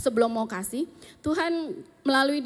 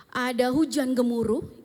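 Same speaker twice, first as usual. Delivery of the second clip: slow, drawn-out build-up; dramatic build; slower than usual. Acted. Retelling Elijah's storm to the listeners, slow and dramatic. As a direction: stretch out the storm for suspense. Contrasts storm with God's stillness.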